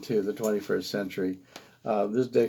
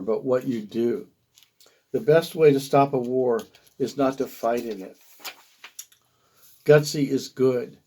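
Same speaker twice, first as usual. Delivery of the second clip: measured recital in short phrases; poem reading; 4 dB louder than usual. Acted. Poet reads a sixties road-trip poem to listeners, measured poetry reading. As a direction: read it as verse, pausing between phrases.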